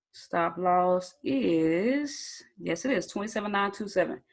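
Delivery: breathless after running for the charger; winded, catching breath between words. Real, not acted. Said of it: "Whew, I'm out of breath".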